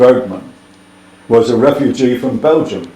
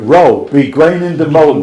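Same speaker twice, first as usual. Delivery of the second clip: put-on old west country; 2 semitones higher, 5 dB louder than usual. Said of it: "it would be written in Devonshire".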